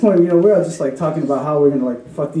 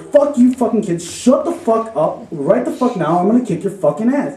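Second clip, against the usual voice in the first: mock tirade, raised pitch; retold angry yelling; 4 semitones higher than usual. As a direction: imitate a friend telling kids off. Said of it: "And Andy's yelling".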